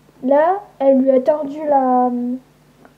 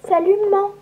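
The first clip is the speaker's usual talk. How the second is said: retrouvailles émues; 6 semitones higher, faster than usual. Acted. Retrouvailles émues avec la mère.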